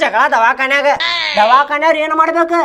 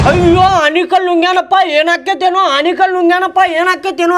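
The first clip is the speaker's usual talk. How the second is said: higher-pitched mock alarm; retold panic; 5 semitones higher than usual. Uncle retells everyone panicking over a swallowed hailstone, mock alarm. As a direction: imitate a family fretting in panic. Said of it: "ಎಲ್ಲರೂ ಗಾಬ್ರಿ".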